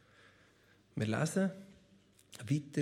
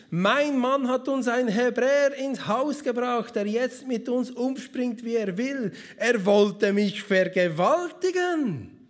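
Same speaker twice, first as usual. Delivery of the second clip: louder, higher mock outrage; false accusation; 4 semitones higher, 4 dB louder than usual. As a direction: accuse him loudly to the servants. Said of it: "Potiphars Frau schrie auf".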